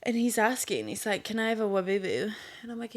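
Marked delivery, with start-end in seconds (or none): 1.2-2.3 "Wabubu" with a W for the first L; child's lisp. Retold or imitated. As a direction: imitate a small son's "Wabubu", L softened to W. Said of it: "like, a lisp".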